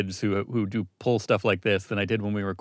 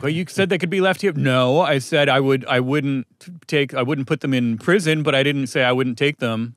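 put-on whiny kid voice; 3 semitones higher than usual. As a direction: whine it like a spoiled kid. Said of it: "should have said it in a whiny kid voice".

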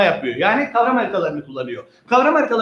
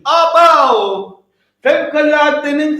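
loud, falling cry of mock shock; mock horror; 4 semitones higher, 4 dB louder, slower than usual. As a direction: gasp in comic disbelief.

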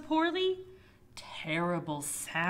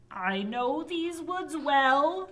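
high witch voice; 6 semitones higher, 6 dB louder, slower than usual. Acted. Witch offers help.

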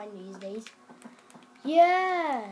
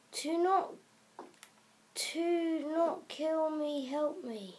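slow, higher put-on plea; pleading creature; 4 semitones higher, slower than usual. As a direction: beg slowly for your life. Acted plea of a game creature.

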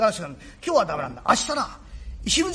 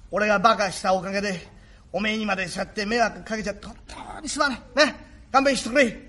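contrite father. Acted. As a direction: say sorry to your boy, close to tears. Father apologising to son.

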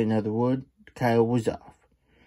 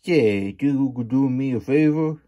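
a touch higher, put-on coyote voice; 3 semitones higher, 4 dB louder than usual. Coyote asking Slim a favor, in a lightly higher voice. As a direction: ask it as the sly coyote. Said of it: "asked the coyote".

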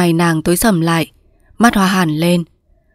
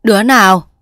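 crisp mistress calling to a servant; slightly raised, commanding question; firm, resounding voice; 2 semitones higher, 4 dB louder than usual. Acted. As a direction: demand it with authority. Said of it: "giọng dõng dạc".

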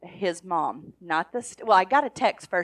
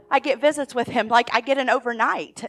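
higher and louder, retelling a thrilled mom; imitated excitement; 5 semitones higher, 5 dB louder than usual. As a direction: lightly act out a mom's excited news. Retelling mom's thrilled news.

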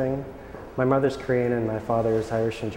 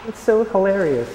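squeaky high mock of amused strangers, a bit louder; mocking high squeal; 11 semitones higher, 5 dB louder, much slower than usual. Imitating Korean people amused he is Korean, in a mocking high voice. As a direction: lampoon their delighted laugh, pitched way up. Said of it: "they're like".

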